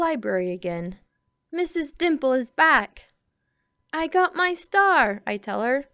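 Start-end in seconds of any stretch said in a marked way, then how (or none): 1.5-5.2 excited. Acted. Excited girl greets librarian.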